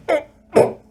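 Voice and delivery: high little troll gulps; pre-belch noises. Acted. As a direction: gulp as if a belch is rising.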